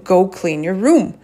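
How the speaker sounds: mild retold parental order, period at the end; command tone. Mom telling kids to clean up, mildly commanding. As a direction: state "room" as a command, not a question. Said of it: "sounded like I was yelling at them".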